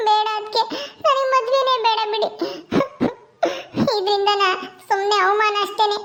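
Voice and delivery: weepy, catching sobs between words; young woman sobbing that she wants no marriage; tearful. Acted. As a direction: refuse through tears. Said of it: "ಅಳ್ಬೇಡ, ನಿನ್ ಕಣ್ಣೀರ್ ಒರೆಸ್ಕೊ ಮೊದ್ಲು".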